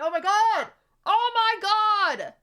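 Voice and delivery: loud, high, drawn-out oh my God; exasperated groan. Real, not acted. Streamer reacting to dumb chat, loud exasperated groan. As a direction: stretch it out in disbelief.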